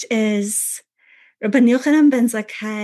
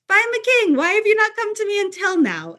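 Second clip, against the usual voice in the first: put-on old New York Jewish accent; 10 semitones higher, faster than usual. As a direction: play a fifties Jewish New Yorker, pitched way up. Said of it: "tone and accent of a Jewish man".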